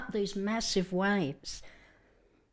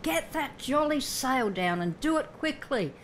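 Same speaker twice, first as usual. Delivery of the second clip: shouted order; 6 semitones higher than usual. Retold or imitated. Peter shouting to James and John, raised voice. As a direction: order the sail down with urgency. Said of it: "probably shouted to James or John".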